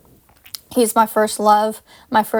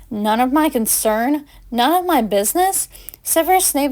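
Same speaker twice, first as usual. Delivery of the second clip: indignant; 4 semitones higher than usual. Acted. Paige indignant at Severus.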